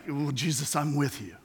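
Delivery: lightly voiced eager disciple; eager Peter. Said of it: "and he's like".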